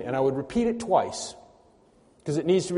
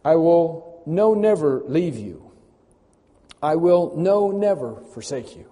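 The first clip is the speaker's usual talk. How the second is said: "no" drawn out loud and slow before "never"; weighty promise with "no" stretched; emphatic promise; 2 semitones higher, 5 dB louder, slower than usual. Shown as a demonstration. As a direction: proclaim it slowly, leaning on "no, never". Proclaims the emphatic rendering.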